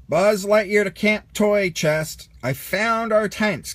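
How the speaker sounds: calling out. A narrator's reading. Space ranger calling the toys about tents, loud call. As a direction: announce it like a space ranger on the radio. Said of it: "called Buzz".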